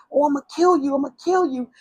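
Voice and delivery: high-pitched mock threat; half-voiced angry threat; retold threat. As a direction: imitate an enraged boyfriend, pitch up, volume normal. Boyfriend's threat, retold mid-fight.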